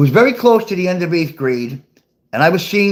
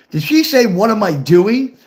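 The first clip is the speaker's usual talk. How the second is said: higher-pitched, disbelieving question; a touch of shocked double-take; mildly incredulous; 4 semitones higher than usual. Retold or imitated. Teen unsure he heard his girlfriend right, mildly incredulous.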